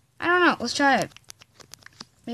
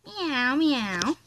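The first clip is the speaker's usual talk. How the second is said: cat meows; 4 dB quieter than usual. Pretend. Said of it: "Kitty, kitty".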